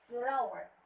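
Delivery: "flower" with the stress on FLOW, falling on "er"; stress on first syllable. Shown as a demonstration. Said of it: "the stress is".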